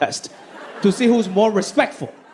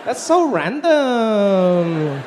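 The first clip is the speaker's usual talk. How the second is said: judgy disgust; much slower than usual. Retold or imitated. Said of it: "everybody looked at her as like".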